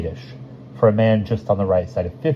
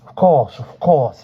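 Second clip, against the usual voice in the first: muffled into handkerchief; 7 semitones higher, 6 dB louder, slower than usual. A narrator's reading. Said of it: "into his handkerchief".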